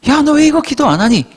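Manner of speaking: a loud fatherly rebuke; mock fatherly scold. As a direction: call the child out sharply. God scolds the child.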